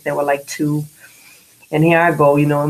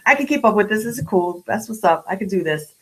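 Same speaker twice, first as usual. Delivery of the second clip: excited inner voice; 6 semitones higher, faster than usual. Retold or imitated. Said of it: "I was like".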